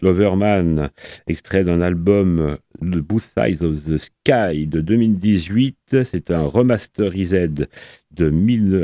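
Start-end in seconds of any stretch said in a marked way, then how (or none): 5.9-7.7 slow, French-accented try at English 'remasterised'. Real, not acted. Radio host saying the English 'remasterised' slowly in a French English accent. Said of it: "excusez mon accent anglais".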